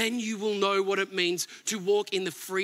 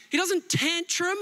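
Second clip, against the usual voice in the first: ordinary talk, nothing marked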